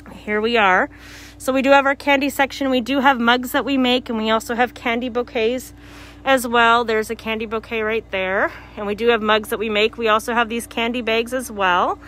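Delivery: muffled behind a mask; talking through a face mask. Real, not acted. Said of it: "I'm sorry if I sound a little muzzled 'cause of the, um, mask".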